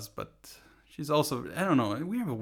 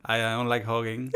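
put-on Latino accent. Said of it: "in your Latino accent".

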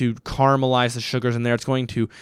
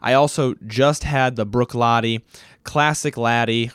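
normal talking voice

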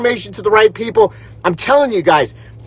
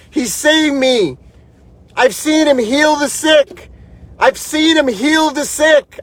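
fervent, higher-pitched testifying; impassioned testimony; 4 semitones higher than usual. Real, not acted. Host testifies to viewers that God saved his life, impassioned.

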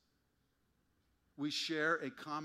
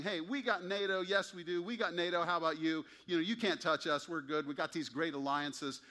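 cocky and raised, bragging about allies; smug boasting; 4 semitones higher, 4 dB louder than usual. Retold or imitated. Nation boasting to the prophet, smug and raised. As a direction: play the smug nation showing off its protection.

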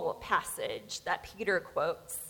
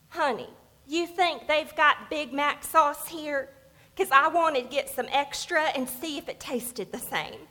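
lightly voiced older woman with a Southern accent, slightly higher; hometown Southern accent; 4 semitones higher than usual. Older wife asking her husband about sauce, light Southern accent. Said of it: "my kind of people's accent".

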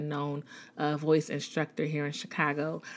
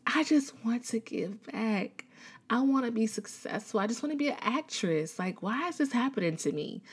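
breathy, higher pleading to God; desperate prayer; 4 semitones higher than usual. Retold or imitated. She prays to God after watching Oprah, pleading and higher. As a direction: beg God through tears. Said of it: "And I was like, "God".

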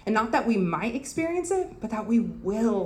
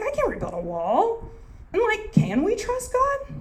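doubtful Israelites; 2 semitones higher than usual. Retold or imitated. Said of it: "They're like".

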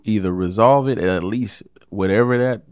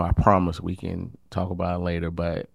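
honest, gentle; 4 dB quieter than usual. Shown as a demonstration. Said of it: "but be like".

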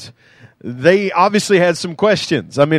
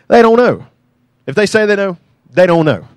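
louder, higher, punched with full conviction; firm preacher's declaration; emphatic; 3 semitones higher, 4 dB louder than usual. Real, not acted. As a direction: hammer it home to the congregation. Preacher insists on the point.

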